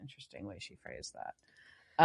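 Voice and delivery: unvoiced muttered aside; whispered side remark. Real, not acted. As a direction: drop to a whisper for the comment.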